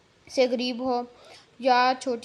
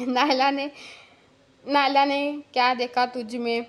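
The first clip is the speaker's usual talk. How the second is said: laughing; 2 semitones higher, 5 dB louder than usual. Acted. Teasing him, laughing.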